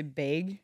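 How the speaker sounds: "bag" with a Wisconsin vowel, like "bayg"; Wisconsin accent. Shown as a demonstration. Showing how Wisconsin people talk, "bag" as "bayg" in Wisconsin accent. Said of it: "you've been to Wisconsin".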